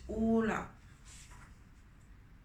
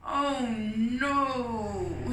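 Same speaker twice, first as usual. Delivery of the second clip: a moaning oh no, a touch higher and louder; 4 semitones higher, 5 dB louder than usual. Acted. Fly moaning to his friends about the test. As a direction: groan it out in dismay. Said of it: "he moaned".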